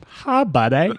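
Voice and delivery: imitating a rote, awkward hello; exact same greeting. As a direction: mimic his one stock phrase. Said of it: "there's the exact same".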